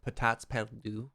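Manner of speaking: slow, botched French accent on Potats Perdus; badly accented French, drawn out; terrible French accent. Real, not acted. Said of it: "my French accent was terrible there".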